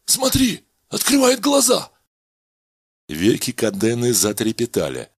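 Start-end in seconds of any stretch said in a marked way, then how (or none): 0.1-1.9 much higher, eager call out; excited. Acted. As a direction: point at the waking patient. Patient wakes, excited colleague.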